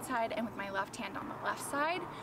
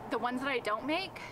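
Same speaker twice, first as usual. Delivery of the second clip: panting, out of breath between words; breathless after exercise. Real, not acted. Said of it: "I need to catch my breath".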